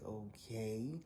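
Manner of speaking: a pointed okay, trailing up; sarcastic okay. Retold or imitated. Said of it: "I did one of those".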